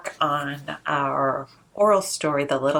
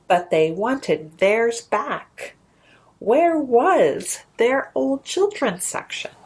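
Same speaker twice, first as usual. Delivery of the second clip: lilting, rhythmic storybook read; sing-song picture book narration; reading to children. A narrator's reading. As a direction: read it like a bedtime rhyme to little ones.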